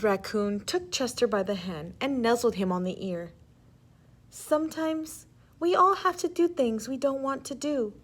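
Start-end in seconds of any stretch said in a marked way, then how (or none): 4.3-7.9 gentle mother. Acted. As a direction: comfort a nervous child. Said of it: "she told him gently".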